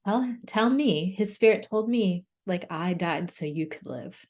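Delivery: real welling up mid-story; choked up, holding it together; close to tears. Real, not acted. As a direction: push the words out while fighting back tears. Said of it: "I'm gonna cry".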